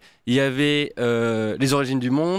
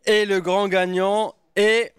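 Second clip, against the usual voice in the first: booming prize announcer; 4 semitones higher, slower than usual. Acted. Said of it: "C'est son passage préféré".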